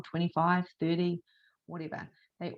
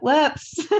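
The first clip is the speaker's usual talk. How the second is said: high, loud sheepish whoops; mock whoops; 8 semitones higher, 6 dB louder than usual. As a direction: caught out, play it sheepish. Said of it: "And I'll be like".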